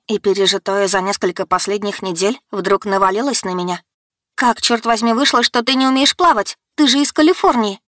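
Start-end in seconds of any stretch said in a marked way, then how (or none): 4.3-7.8 high, heated confrontation; exasperated high-voiced accusation; indignant young heroine. A narrator's reading. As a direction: demand an answer, pitch climbing. Heroine rounds on Luka.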